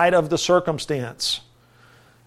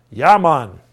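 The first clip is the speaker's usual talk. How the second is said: put-on Jamaican accent; 3 semitones lower, 4 dB louder than usual. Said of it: "You know, real Jamaican".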